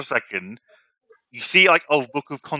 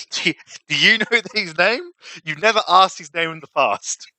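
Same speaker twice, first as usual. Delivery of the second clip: higher, questioning noble voice; prince voice; 5 semitones higher than usual. Acted. GM questions player in character.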